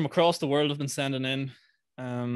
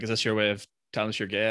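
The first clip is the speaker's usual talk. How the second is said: serious dad; 4 semitones lower than usual. Retold or imitated. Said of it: "was real serious".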